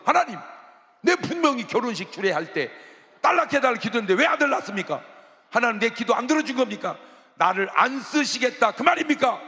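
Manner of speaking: high, loud, fast protest; preacher confronting God over a prayer, mock indignant; demanding of God. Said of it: "하나님께 따져 물었어요".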